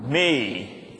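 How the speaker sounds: drawn out very slowly; slow emphatic. Shown as a demonstration. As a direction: stretch every word for the crowd. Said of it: "Then say".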